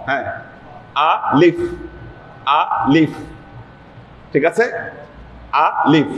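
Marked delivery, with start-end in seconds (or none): 1.1-3.1 "আ লিফ" in two crisp syllables, no stretch; alif without elongation. Shown as a demonstration. Teacher modelling alif for students, no elongation. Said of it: "কোনো টান নাই". 5.6-6.1 "আ লিফ" with both vowels kept short; alif without elongation. Shown as a demonstration. Teacher repeating alif for students, no elongation. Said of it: "কোনো টান নাই".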